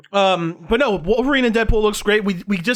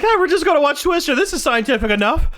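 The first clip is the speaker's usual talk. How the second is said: mocking the teacher; 7 semitones higher than usual. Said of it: "It was like".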